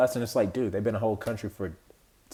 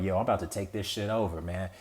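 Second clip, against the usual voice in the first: lightly voiced swaggering guest, softer and fast; mock intruder; 5 semitones lower, 7 dB quieter than usual. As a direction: toss it off like a cocky guest claiming your house. Mock intruder in someone's home.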